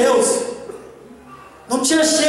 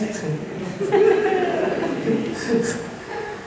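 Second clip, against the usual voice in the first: soft laugh; 4 semitones higher, 6 dB quieter than usual. Real, not acted. Laughs at shoe situation.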